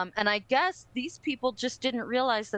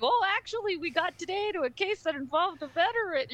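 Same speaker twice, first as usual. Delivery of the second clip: eager student; 8 semitones higher than usual. Retold or imitated. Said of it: "I was like".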